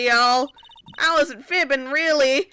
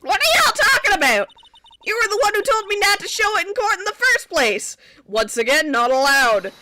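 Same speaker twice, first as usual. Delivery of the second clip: high, loud indignant yelling; furious outburst at the old man; angry shout; 7 semitones higher, 4 dB louder than usual. Acted. Witness yelling at prosecutor.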